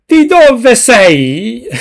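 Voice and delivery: milk the Italian accent like a caricature; hammed-up Italian accent. Shown as a demonstration. Streamer mocking her own Italian accent for chat, hammed-up Italian accent. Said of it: "ham up the Italian accent".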